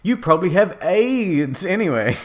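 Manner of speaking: high, indignant jibe; hammed-up petulant anger; angry retort. A narrator's reading. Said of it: "I shouted".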